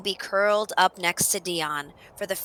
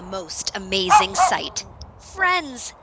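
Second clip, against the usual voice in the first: excited wonder; 4 semitones higher, slower than usual. A narrator's reading. Dog delightedly sees friends.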